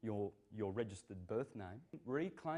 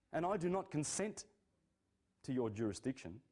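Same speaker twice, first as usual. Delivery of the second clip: defiant challenge; 4 semitones higher than usual. Retold or imitated. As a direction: confront the public servant, refuse consent. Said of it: "Because people aren't saying".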